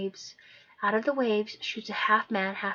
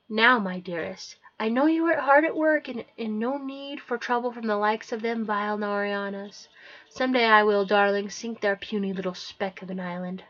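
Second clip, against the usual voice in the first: a hint of regal king; 4 dB louder than usual. Ocean King speaks to them.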